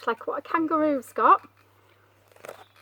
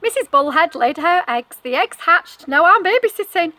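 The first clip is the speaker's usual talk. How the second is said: cheery high fish voice; 5 semitones higher, 10 dB louder than usual. Acted. Bullhead character speaks.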